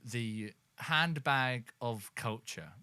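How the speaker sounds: slow, grand show host; announcer voice. Acted. Announcer intro of the segment.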